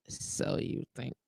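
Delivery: dropped to a breathy whisper; a sly murmured doubt; whispered aside. Acted. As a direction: mutter it sceptically under your breath. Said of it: "sceptical aside".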